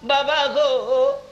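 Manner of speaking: slow, drawn-out plaintive call. Retold or imitated. Orphan boy on the mountain calling his father, drawn-out and plaintive. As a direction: stretch each call out for a lost father. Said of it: "সামনের দিকে তাকাইয়া ডাকে".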